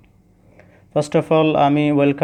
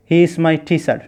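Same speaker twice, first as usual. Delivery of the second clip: put-on Chittagong accent; much slower than usual. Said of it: "চট্টগ্রামের মানুষগুলো তো এভাবেই বলে".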